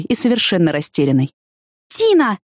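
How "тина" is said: sharp high call of her name; shouting. A narrator's reading. Spotting soaked Tina on the highway, shouting her name. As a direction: cry out her name in alarm. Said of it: "закричала я на неё".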